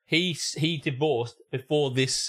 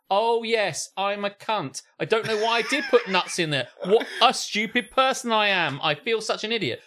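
higher, sarcastic grovelling; mock self-blame; 6 semitones higher than usual. Imagined brother to boyfriend, hammed-up sarcastic apology. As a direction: ham up a fake confession. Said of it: "what are you meant to go".

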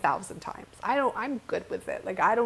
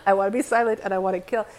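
laughing repeat; 7 dB louder, much faster than usual. Real, not acted.

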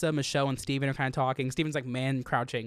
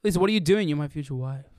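jerky up and down tune; erratic inflection. Retold or imitated. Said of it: "his inflection is just all over the place".

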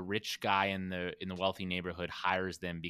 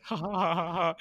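mock giggling; 8 semitones higher, 3 dB louder than usual. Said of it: "like, laughing".

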